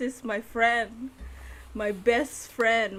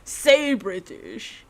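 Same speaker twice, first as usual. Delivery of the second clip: put-on British accent. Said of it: "Or something like that".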